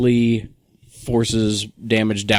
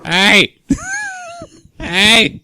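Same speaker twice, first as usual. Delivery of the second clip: calling out; 4 dB louder than usual. Pretend. Ghost calling out ignored.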